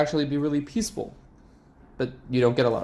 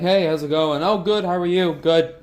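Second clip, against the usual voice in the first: lightly mimicked chirpy pleasantries; casual small talk; 4 semitones higher than usual. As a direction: trade quick, empty hellos, a little raised. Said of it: "not just casual conversations like".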